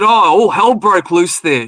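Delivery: drawn-out, mock-grave report; retold real seriousness. Woman reporting on the covid ward, mock serious. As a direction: imitate a serious account, slowly. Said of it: "like, real serious".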